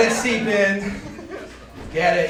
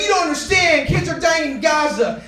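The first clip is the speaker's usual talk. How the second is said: insistent lady; 4 semitones higher than usual. Retold or imitated.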